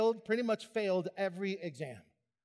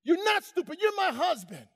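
firm rebuke; 8 semitones higher, 4 dB louder than usual. Retold or imitated. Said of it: "My wife rebuked me".

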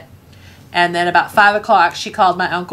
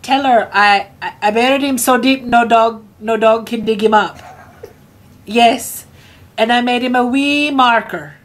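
higher, stammering imitation of contrite dad; dad pleading by phone; 4 semitones higher than usual. Dad on the phone to Tracy, wanting mom back, pleading. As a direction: plead your case, stumbling over repeats. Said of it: "And he goes".

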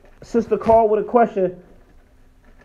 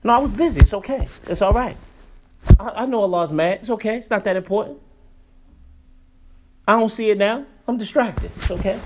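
mock careless excuse. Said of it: "she'll say it like that".

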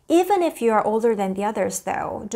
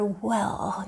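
whispered self-correction; 3 semitones lower, 6 dB quieter than usual. Real, not acted. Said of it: "No, no, no, no".

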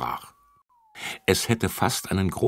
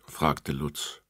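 ordinary delivery

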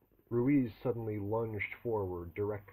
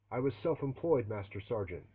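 shouted reply; 3 semitones higher, 4 dB louder than usual. Acted. Recruit shouting answers at drill sergeant.

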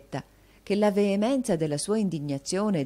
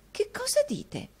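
stupore affettato, voce molto più alta; meraviglia finta. Acted. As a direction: finge di cadere dalle nuvole. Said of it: "affettando un tono di meraviglia". (sorpresa teatrale e falsa, acutissima)

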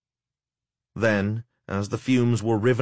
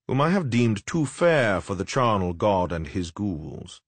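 oily mocking necromancer. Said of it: "the oily, mocking speeches of the necromancer".

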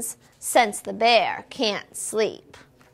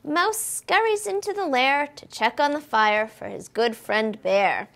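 plain reading voice

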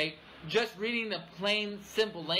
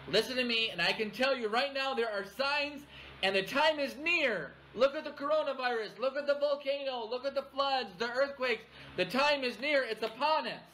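mock false prophet; 5 semitones higher than usual. Voicing a false end-times prophet.

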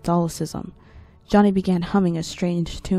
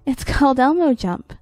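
put-on high kid voice; 7 semitones higher, 7 dB louder than usual. Child voiced.

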